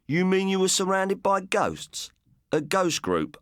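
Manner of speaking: pitched well up, incredulous; can't believe a ghost group; astonished. A narrator's reading.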